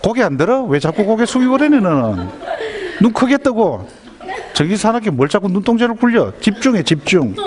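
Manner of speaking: high-pitched acted nagging; angry mother. Mother ordering her child to look and concentrate, angry nagging. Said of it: "막 화가 나는 겁니다".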